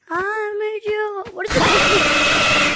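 slow drawn-out loud yell; shouting. Real, not acted. Shouting in game.

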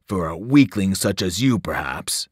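a mild contemptuous snarl. Acted. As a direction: sneer down at the servant. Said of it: "the voice snarled".

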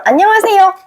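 high, projected hello, held at the top; clear, lifted, carrying greeting; greeting in calling tone. Shown as a demonstration. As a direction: greet as if calling out to mom across the room. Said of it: "그 톤으로".

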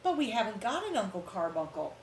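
protesting. Acted. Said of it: "protested Alice Jane".

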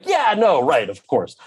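mock-compliant reply; hasty agreement. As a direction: act out an over-agreeable giving in. Retold hasty agreement to producers' request.

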